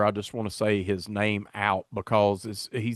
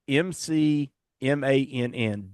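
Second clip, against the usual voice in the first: slow spelling; 3 semitones higher, slower than usual. Shown as a demonstration. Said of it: "spelling out the name".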